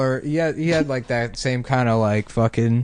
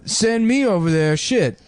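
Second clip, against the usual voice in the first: a higher comic pleading voice; Steve Harvey impression; 8 semitones higher, slower than usual. Retelling Steve Harvey's Iraq bit, mildly higher voice. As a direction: beg to be sent, in a raised voice. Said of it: "He's talking about Iraq".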